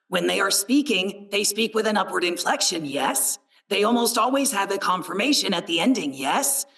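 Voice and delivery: overpronounced Knowlish accent, every line tipping upward. Shown as a demonstration. Narrator demoing how the Knowles talk, upward Knowlish lilt. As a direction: lightly voice the Knowles, ending on a checking yes. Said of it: "that overpronounced Knowlish accent".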